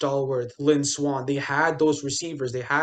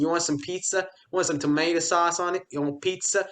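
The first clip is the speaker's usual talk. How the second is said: put-on New York accent; 3 semitones higher than usual. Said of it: "That was a good New York accent".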